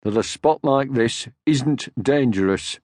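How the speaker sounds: slow, weighty warning; solemn slow lecture; very slowly. Acted. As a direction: drag it out to sound important. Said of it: "very slowly".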